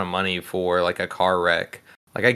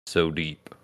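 sultry perfume ad; 4 semitones lower, 4 dB quieter than usual. Shown as a demonstration. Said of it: "just keep it like that".

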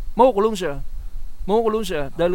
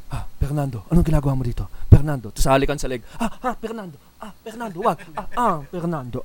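mock old-movie heroine. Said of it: "parang papasok yung lalaki".

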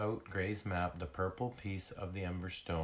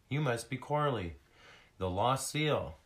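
higher, excited exclamation; exclaiming; 5 semitones higher, 4 dB louder than usual. Acted. Skyla recognizing the lost seal, excited exclamation. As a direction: exclaim it with raised pitch and volume. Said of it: "she exclaimed".

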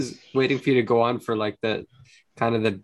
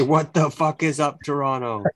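hype announcer; 4 semitones higher than usual. Shown as a demonstration.

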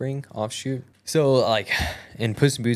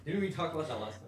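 squeaky teasing voice; 5 semitones higher, 12 dB quieter, faster than usual. Pretend. Put-on voice teasing friend.

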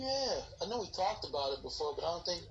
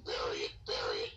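mock pleading whisper. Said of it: "don't ever talk about this movie again".

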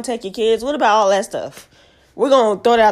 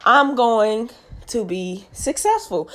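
"I am going to be successful" said slowly, every word weighted; slow solemn vow; slower than usual. Real, not acted. Podcaster vowing to listeners, slow and solemn. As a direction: declare it slowly like an oath. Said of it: "I said this on my podcast".

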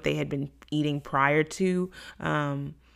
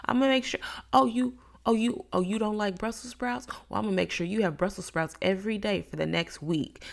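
high, mocking parent voice, pitched up then settling back down; exasperated parent; 6 semitones higher than usual. Parent scolding a picky child, high and mocking. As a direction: play a sarcastic parent threatening Brussels sprouts. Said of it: "makes me think of parents where they're like".

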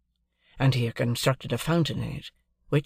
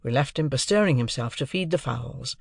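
usual speaking voice

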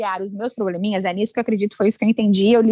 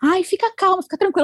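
mock soothing; 9 semitones higher than usual. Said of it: "vai dizer".

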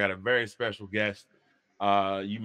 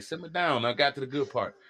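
preacher voice; 2 semitones higher than usual. Retold or imitated. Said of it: "be like the preacher".

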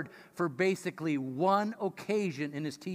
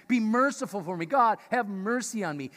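mock plea for mercy; 4 semitones higher, 5 dB louder than usual. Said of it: "He's not asking".

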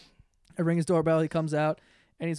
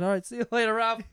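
brushing off, firmly; 6 semitones higher, 8 dB louder than usual. Retold or imitated. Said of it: "And I said".

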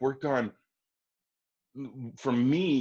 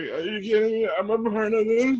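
overjoyed disbelief; 13 semitones higher, 6 dB louder than usual. Retold or imitated. Overjoyed reaction, retold.

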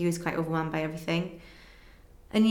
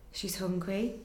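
softer, dawning worry; quiet realisation; 7 dB quieter, slower than usual. Retold or imitated. New mother realising her baby has not fed, quietly. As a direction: let it sink in quietly.

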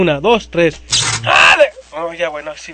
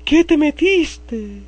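slow; 3 semitones higher, much slower than usual. Acted. Slow acted interrogation.

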